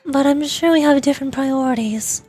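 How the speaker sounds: expressive visual-novel style reading; game dialogue read-aloud. Acted. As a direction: read the story lines aloud with light acting.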